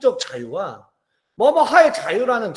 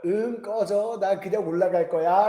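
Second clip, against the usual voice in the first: put-on toddler brushing mom off; 2 semitones lower than usual. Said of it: "함축적으로 말한 거잖아요".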